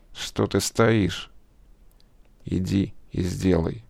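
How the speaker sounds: очень медленный, тихий голос дьявола; дьявол тягуче подгоняет. A narrator's reading. (дьявол подгоняет Славу, медленно и тихо)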